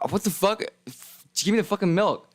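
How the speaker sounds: high, incredulous protest; disgusted disbelief. Retold or imitated. To the man who wants to watch, high incredulous protest. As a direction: recoil at a gross request. Reacting to creepy demand.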